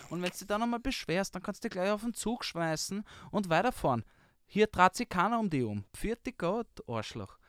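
Viennese grouch ranting at a tourist; a hint of a scolding Viennese grouch; rude Viennese complaints officer. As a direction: grumble the tourist off in thick Viennese. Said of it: "like a true Viennese complaint officer".

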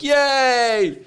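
high excited yay; shrill crowd cheer; mock audience cheer. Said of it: "half the audience is like".

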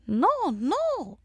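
high, swooping put-on refusal; elderly Romanian dentist. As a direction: imitate the old dentist saying no, high-pitched. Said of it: "she talks like this".

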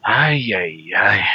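put-on playful Mexican Spanish accent, Chicano slang. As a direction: lean into a Mexican accent like a homie greeting the crew. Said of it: "interesting accent".

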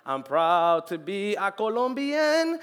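slow, proud imitation of grandma; lightly voiced proud Colombian grandmother; a hint of grandma's pride. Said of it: "She's like".

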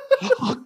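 sharp high mock gasp of a shocked crowd; imitated audible gasp. Comic imitating the shocked crowd, gasping. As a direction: gasp like the stunned audience, half laughing. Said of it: "gasps, like, audible gasps".

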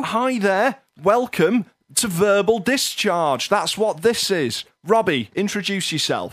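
high, slow bad American host; a hint of a cheesy American host; terrible American accent. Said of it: "me doing a terrible American accent".

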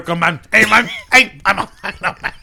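put-on light Chicano stoner accent; Cheech Marin impression. Comic riffing as Olmos, in a light Chicano accent. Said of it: "will be played by Cheech Marin".

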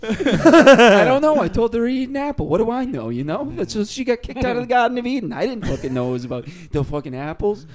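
put-on high-pitched snake sliding into Italian accent; drifting Italian accent. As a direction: protest in a hammed-up Italian accent. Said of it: "slowly turning into an Italian".

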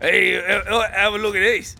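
attempted Australian accent. Shown as a demonstration. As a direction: try an Aussie greeting, hesitantly. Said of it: "do it in your Australian accent".

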